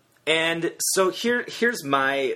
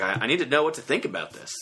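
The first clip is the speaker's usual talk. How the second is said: put-on Cajun accent; faster than usual. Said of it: "I love your Cajun accent".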